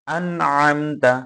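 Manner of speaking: carefully separated আন আমতা; each letter distinct. Shown as a demonstration. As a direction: give each consonant of আন আমতা its own place. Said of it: "প্রতিটা হরফ কাটা কাটা".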